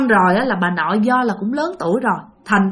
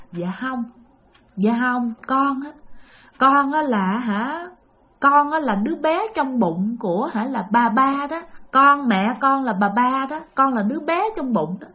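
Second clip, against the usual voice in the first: halting, struggling speech; 2 semitones higher than usual. Retold or imitated. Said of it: "mà nói khó khăn lắm, chứ không phải là nói trơn tru nha".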